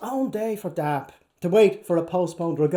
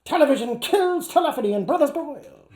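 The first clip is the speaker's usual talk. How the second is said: fast, pitched up, laughing through; 6 semitones higher, faster than usual. Real, not acted. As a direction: giggle through the line. Reader breaks into laughter.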